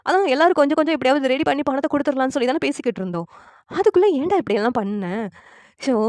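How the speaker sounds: lightly acted exasperated brother; scolding. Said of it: "Pandian திட்டுறாங்க".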